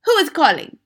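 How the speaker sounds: loud, high witch's snap; irritated villainess, voice jumping up; snapped. A narrator's reading. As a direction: demand an answer sharply. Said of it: "snapped the Grand High Witch".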